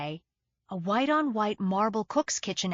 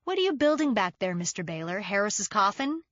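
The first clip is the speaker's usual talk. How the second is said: yelled challenge. Acted. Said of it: "I yelled".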